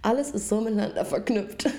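whispered after choking; choked whisper. Real, not acted. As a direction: whisper it, throat still caught. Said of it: "Ich hab mich verschluckt".

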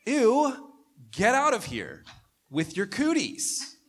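mock playground disgust, shrill and loud; grossed-out God. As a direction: squeal it like a kid dodging cooties. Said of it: "And God's like".

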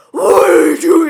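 shouted high mom's question; retold shout of surprise; mock yell. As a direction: yell it like an alarmed mom. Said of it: "my mom was like".

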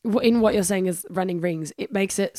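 losing her voice, raspy and thin; raspy whisper. Real, not acted. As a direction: voice cracking and giving out. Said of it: "sorry, I'm losing my voice".

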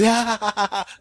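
put-on girlish ha-ha-ha; mimicked cackle. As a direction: imitate the friend's staccato laugh. Mimics her friend laughing.

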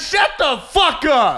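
slow, shouted shut up; mock angry shout. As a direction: bark it slowly. Mock scolding friend.

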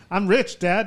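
lightly voiced boy talking to his dad; retold son. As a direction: innocent claim, in the teller's own register. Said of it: "he's like".

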